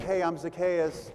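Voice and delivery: breezy, offhand "Hey, I'm Zacchaeus."; casual self-introduction. Shown as a demonstration. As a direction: toss it off like a casual hello. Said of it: "He didn't do that".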